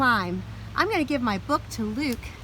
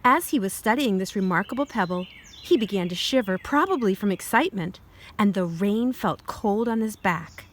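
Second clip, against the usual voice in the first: put-on reading to children. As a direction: clear storybook read-aloud. Reads picture book aloud.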